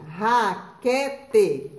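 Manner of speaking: raquete with a strong guttural r at the start; strong initial R. Shown as a demonstration. Teacher presenting the first word to pupils, careful strong R. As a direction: open raquete on a strong throaty r. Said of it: "a primeira palavrinha".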